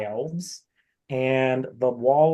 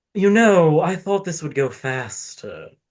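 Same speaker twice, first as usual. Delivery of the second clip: loud masculine voice; 3 semitones higher, 5 dB louder than usual. Voicing an arguing figure overheard up the stairs: masculine voice. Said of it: "the masculine one is like".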